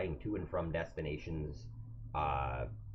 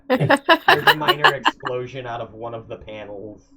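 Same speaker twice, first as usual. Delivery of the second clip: loud, booming scene narration; explosive narration; 6 semitones higher, 17 dB louder than usual. Acted. Game master booming out the explosion to players. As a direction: announce the explosion with force.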